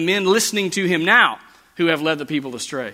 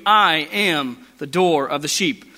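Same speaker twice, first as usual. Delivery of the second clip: slow, deliberate stress on "I am"; emphatic; 3 semitones lower, slower than usual. Shown as a demonstration. Preacher rereading Jesus' claim to the congregation, emphatic "I am". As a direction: draw out "I am" as a solemn declaration. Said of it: "It's emphatic".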